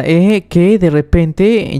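mildly incredulous, voice lifted; taken aback. Acted. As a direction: react as if caught off guard. Protagonist startled by loan request.

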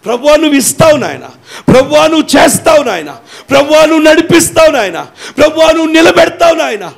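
rising, shouted high faith declarations; bold declarations. Shown as a demonstration. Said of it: "ఇవే పలకాలు".

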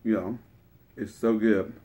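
chewing while talking; talking between bites; mouth full. Real, not acted. Seen 1: Taco in hand, lips pursed as if chewing after bite.

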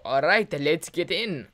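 put-on slow, half-hearted Russian accent; slowed-down amateur Russian accent; attempted Russian accent. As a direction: try a Russian father's accent, not very convincingly. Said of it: "like, a Russian accent".

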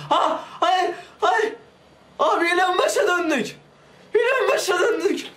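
high, strained laughing wail; laughing despair. Real, not acted. Gamer loses all progress, laughing despairingly in a high wail. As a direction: laugh through the disbelief.

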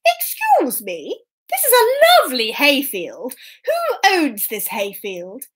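a hint of a gracious king; storybook king. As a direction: call out grandly, stretching the key words. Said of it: "And the king said to the workers".

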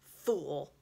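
snarling witch. A narrator's reading. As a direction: spit the word with a snarl. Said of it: "a savage smile that was almost a snarl".

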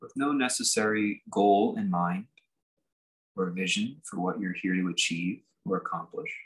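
unhurried meditation leader, long pauses between phrases; guided meditation. Real, not acted. Teacher settling listeners into just being here, guided meditation. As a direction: ease them gently into sitting, phrase by phrase.

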